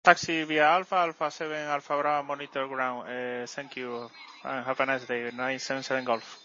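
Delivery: crackly military radio. Real, not acted. Pilot radio readback.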